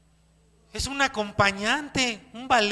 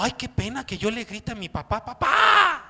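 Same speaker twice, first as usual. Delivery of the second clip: put-on shy embarrassed child. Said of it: "Los ven así como".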